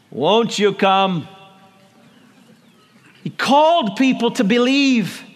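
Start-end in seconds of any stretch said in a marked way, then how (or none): 0.1-1.3 a light hint of a North Carolina accent, slow; a slow, lightly drawn-out North Carolina invitation; Billy Graham's North Carolina accent. Pastor imitates Billy Graham's altar call, slow light North Carolina accent. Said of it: "in that great North Carolina accent".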